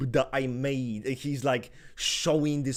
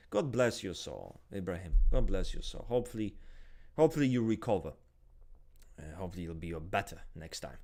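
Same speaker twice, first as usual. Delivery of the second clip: low, hushed mock prayer; mock solemn blessing; 9 semitones lower, 4 dB quieter than usual. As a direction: bless him with fake piety. Mock condolence to Ibrahim.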